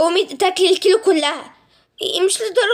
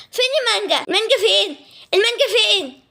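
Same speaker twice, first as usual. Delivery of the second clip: higher, urgent where-is-it; shocked demand; 4 semitones higher than usual. Acted. Girl to mother after the mango vanished, shocked. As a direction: demand the missing mango in disbelief.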